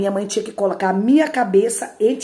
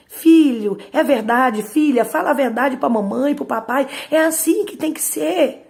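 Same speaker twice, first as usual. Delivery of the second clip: higher, louder, pleading and caring; gentle parent asking; 6 semitones higher, 4 dB louder than usual. Shown as a demonstration. Loving parent gently asking child to tell the truth. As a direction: coax the truth out of the child kindly. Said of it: "você tem que ouvir as duas versões".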